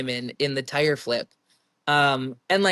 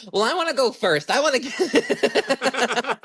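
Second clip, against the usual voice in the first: much higher, slow whiny tantrum; mini tantrum; 9 semitones higher, slower than usual. Retold or imitated. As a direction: drag it out like a sulking kid. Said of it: "after that mini tantrum".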